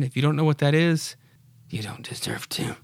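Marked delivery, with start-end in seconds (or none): 1.7-2.8 dry whispered put-down; whispered sarcastic aside; whispered jab. Real, not acted. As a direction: sneak the insult in under breath. Snarky aside to children.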